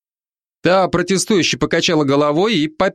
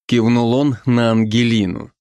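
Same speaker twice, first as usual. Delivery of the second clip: ordinary delivery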